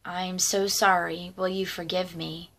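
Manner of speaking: low, softening plea for forgiveness; understated retelling of a tearful sorry; retold tearful apology. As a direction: imitate a subdued, contrite apology. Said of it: "she was in tears".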